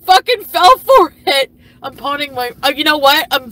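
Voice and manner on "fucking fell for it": higher, louder sneering imitation; mocking Foodie Beauty. Mocking Foodie Beauty bragging about her husband, sneering. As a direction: mimic her smugly. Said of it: "Foodie Beauty's like".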